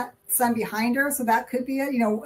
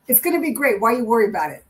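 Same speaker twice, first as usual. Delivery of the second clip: voiced spirit message; 4 dB louder, faster than usual. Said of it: "I don't know who talks like that".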